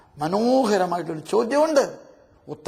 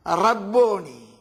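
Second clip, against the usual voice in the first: slow reverent; much slower than usual. Acted. Mary's reverent slow answer.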